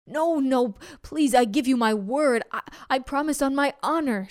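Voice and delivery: begging tiger with a put-on voice; pleading tiger voice. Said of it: "said the tiger".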